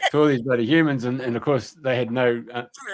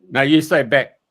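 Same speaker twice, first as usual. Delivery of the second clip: commanding elf; 4 semitones higher, 9 dB louder than usual. Retold or imitated. Elf orders Peter back.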